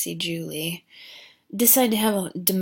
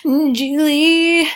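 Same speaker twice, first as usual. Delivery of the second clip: mock-frantic calls climbing higher and louder; rising octaves; 5 semitones higher, 9 dB louder, slower than usual. Boyfriend searching for his girlfriend, voice climbing in mock upset. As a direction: start near normal, jump up to a loud high cry on each repeat. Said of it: "his voice keeps going up octave".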